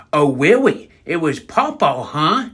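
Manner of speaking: menacing granny. Retold or imitated. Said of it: "she was like".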